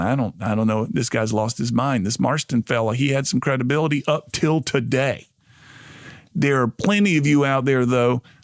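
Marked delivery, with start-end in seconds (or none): none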